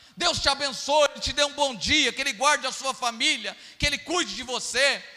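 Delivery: fervent, loud delivery.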